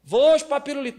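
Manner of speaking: put-on high, crying kid voice; high, tearful child wanting a lollipop; whining child. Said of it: "filho chorando".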